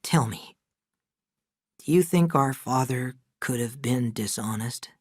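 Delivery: wearily, a little quiet; a touch of tiredness in the question; tired voice. Acted. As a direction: ask it worn out and subdued. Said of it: "his voice was tired".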